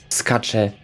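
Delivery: normal talking voice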